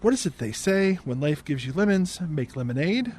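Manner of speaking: "lemonade" lifted into a question; unsure saying, questioning rise on "lemonade". Retold or imitated. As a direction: end "lemonade" on a questioning upturn. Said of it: "She says that as a question".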